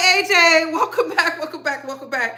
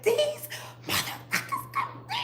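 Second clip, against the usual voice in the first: angry whisper; 9 dB quieter than usual. Retold or imitated. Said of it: "I wrote it down just like".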